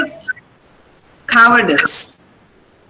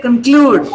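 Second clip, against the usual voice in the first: "conclude" stressed hard on CLUDE; stress on CLUE; 4 dB louder than usual. Shown as a demonstration. Teacher quizzing students on stress, "conclude" stressed on second syllable. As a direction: reduce "con" and punch CLUDE in "conclude". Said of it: "tell me where I stressed".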